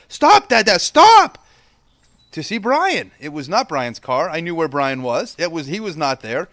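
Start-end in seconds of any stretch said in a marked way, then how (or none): 0.1-1.4 put-on high, loud demand from a kid; imitating an insistent child. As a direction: cry out like a child urgently demanding a halt. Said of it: "and he said".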